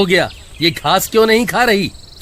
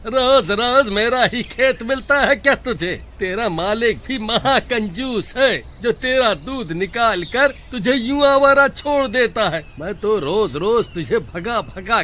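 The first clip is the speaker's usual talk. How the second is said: angry scolding; 5 semitones higher than usual. Acted. Farmer chases buffalo from field.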